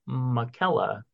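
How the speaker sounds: "Michaela" said slowly as muh-KELL-uh; "Michaela" with a k sound in the middle; first pronunciation offered. Shown as a demonstration. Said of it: "however they're gonna pronounce it".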